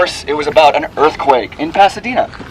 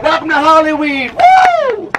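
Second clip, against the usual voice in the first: excited shout; 10 semitones higher, slower than usual. Real, not acted. Guide cheering to the group at the peak, shouting. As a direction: yell it out like you just reached the top.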